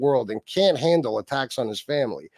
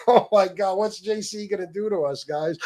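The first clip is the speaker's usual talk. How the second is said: mock fear; 5 semitones higher than usual. Pretends to fear JC.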